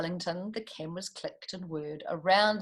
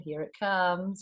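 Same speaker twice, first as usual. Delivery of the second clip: slow build. Shown as a demonstration. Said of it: "You watch the title".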